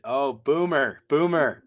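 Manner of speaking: loud, high mocking call; teasing shout. Real, not acted. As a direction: yell it out, ribbing a friend. Teasing a muted colleague.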